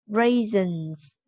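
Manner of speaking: Raisins with the final S sounded; clear final sound. Shown as a demonstration. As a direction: model Raisins, voicing the plural ending clearly. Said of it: "Ở đây âm đuôi ha".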